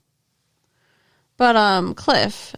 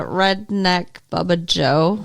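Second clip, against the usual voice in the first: slow redneck Southern drawl; 2 semitones lower than usual. Shown as a demonstration. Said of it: "you don't like that voice".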